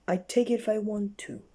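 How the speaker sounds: loud, high, stubborn retort; snorting defiance. Acted. Miss Stubborn defying Mister Sneeze with a loud snort. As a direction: snap back defiantly. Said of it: "snorted little Miss Stubborn".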